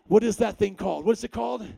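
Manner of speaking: calling out. Real, not acted. Shouting to congregation.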